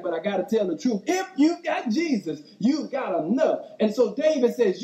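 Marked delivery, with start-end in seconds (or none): 1.1-3.6 lifting the crowd, caught up in the moment; excited. Shown as a demonstration. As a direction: pitch leaps up on Jesus, then settles. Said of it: "I don't wanna get too excited".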